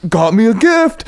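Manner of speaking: high, gleeful crowing; a pop star. Retold or imitated. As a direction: imitate a pop star showing off loot. Acts out the pop star gloating over tile.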